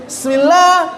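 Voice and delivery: mock the wrong Bismillah laughing. Shown as a demonstration. Teacher laughing at the common mistake. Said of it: "banyak yang baca begitu".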